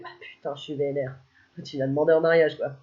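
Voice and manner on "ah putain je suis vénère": muttered jealousy. Pretend.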